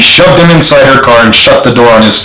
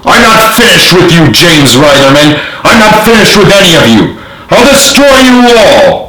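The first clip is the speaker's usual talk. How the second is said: much higher, furious parting threats; villain's threat; 8 semitones higher than usual. A narrator's reading. Arrested general vowing revenge, much higher and furious. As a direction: rage at them as he's dragged off.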